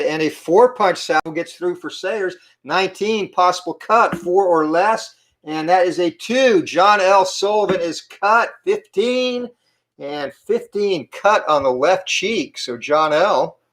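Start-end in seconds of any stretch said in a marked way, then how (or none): 2.6-12.6 excited. Real, not acted. A cut opens mid-fight.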